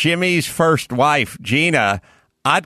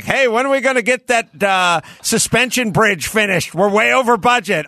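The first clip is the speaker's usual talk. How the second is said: higher-pitched, lightly played harried boss; mock busy boss; 6 semitones higher than usual. Imagined boss chasing a bridge project, mock urgency. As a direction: pretend to chase an overdue project. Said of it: "none of these people are in a hurry".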